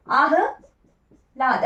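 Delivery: आह्लाद drawn out very slowly, each sound apart; careful spelling demo. Shown as a demonstration. Teacher showing students the correct spelling, very slowly. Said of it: "हलंत है ये".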